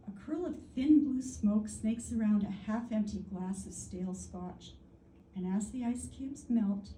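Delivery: measured, lilting recital with a cool tag ending; expressive verse delivery; poetry reading. Real, not acted. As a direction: savour the images of a cool jazz poem. Reads own jazz poem.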